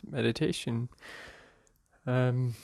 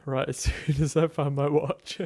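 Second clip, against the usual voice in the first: chuckling, louder, at his own mix-up; laughing; 5 dB louder than usual. Real, not acted. Guide jokes to listeners about his lost watch, laughing. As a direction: laugh through the words.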